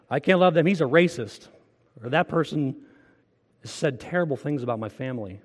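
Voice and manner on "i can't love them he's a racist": louder, scornful quoted excuse; mock excuse. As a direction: sneer it like a grudging believer. Mocking an imagined churchgoer's excuse.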